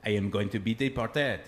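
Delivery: lightly put-on French accent; mock French accent. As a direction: play the French baker, a touch worried. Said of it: "I'll tell it in his voice".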